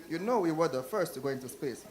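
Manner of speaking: badly faked Russian accent; awful Russian accent. Russian guy boasting on TV, in a badly faked Russian accent. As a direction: attempt a weak Russian accent. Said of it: "My Russian accent is awful".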